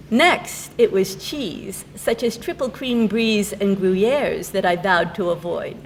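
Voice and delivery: measured reading of light comic verse; poem recitation. Acted. Poet reading her diet poem to an audience, measured recitation. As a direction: recite the verse, lifting line openings.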